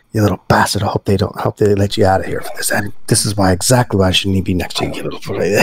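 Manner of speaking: muttered through a cupped hand; hand over mouth. Acted. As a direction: grumble into your hand. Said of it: "I'm speaking through my hand".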